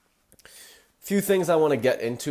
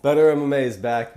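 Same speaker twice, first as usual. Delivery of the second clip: louder, faster, rising hype; hype intro; 3 semitones higher, 5 dB louder, faster than usual. Pretend. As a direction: punch it like a show opener. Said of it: "Just fucking with y'all".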